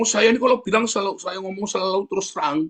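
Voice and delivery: high-pitched self-proud imitation; imitating someone pleased with himself; mock boastful. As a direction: brag about your own bluntness, pitched well up. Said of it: "Dia bangga sekali".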